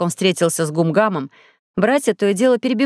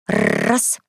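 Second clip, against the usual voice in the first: шепчет «раз» без голоса; тихо, одним дыханием «раз»; шёпотом; 3 semitones higher than usual. A narrator's reading. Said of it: "И шёпотом добавил". (шёпотом «Раз»)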